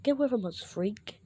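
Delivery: acted-out bully pushing him away; mock angry rejection. Kids reject him in story.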